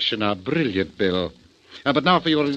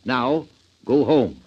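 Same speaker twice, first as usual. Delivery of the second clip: command to dog; slower than usual. Retold or imitated. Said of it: "And then say".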